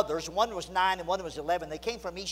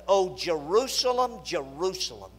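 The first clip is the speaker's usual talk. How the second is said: slow, weighty lament with mild frustration; a touch of frustration, words drawn out; frustrated lament. Acted. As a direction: read it as a pained, measured reproach. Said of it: "I can almost hear some frustration".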